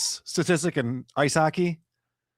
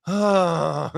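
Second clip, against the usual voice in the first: exasperated groan. Acted. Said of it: "I'm just like".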